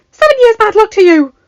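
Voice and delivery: furious high scream at the top of her lungs. Acted. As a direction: shriek the curse, enraged. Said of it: "she screamed".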